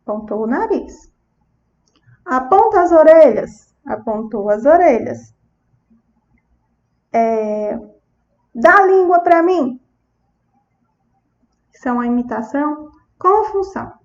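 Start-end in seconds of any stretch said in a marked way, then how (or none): 2.2-3.7 put-on higher, clear prompt to a child; therapist's instruction. Shown as a demonstration. Therapist asking a child to point at the ears, raised prompting voice. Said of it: "Eu disse". 8.5-9.8 put-on higher, playful command to a child; therapist's instruction. Shown as a demonstration. Therapist asking a child to stick out the tongue, lifted prompting voice. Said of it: "Eu disse".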